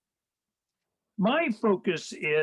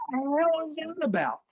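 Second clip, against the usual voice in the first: higher-pitched, disbelieving retort; a retold "what the hell" with raised pitch; mock disbelief; 8 semitones higher than usual. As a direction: act out exasperated disbelief, pitched up. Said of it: "I'm like".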